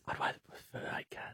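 barely voiced dissent; whispered aside. Real, not acted. Co-host disagreeing about cats versus koalas, whispered. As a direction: whisper it under your breath. Muttered dissent after co-host's preference.

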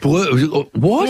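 real surprise, pitch leaping on "what"; startled disbelief. Real, not acted. Co-host hears about a photo of bottom crack, startled.

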